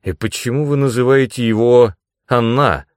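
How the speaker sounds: pointed question, full of doubt; suspicious. A narrator's reading. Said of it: "с подозрением спросил он".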